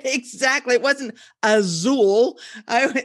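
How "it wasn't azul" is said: "wasn't" stressed, slow and rising; "It wasn't azul" said slowly with weight on "wasn't". Shown as a demonstration. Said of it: "It was a very subtle difference".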